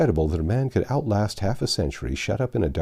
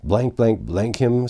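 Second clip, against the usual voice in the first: cursing knight; 3 dB louder, slower than usual. Acted. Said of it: "brake out anew with cursing".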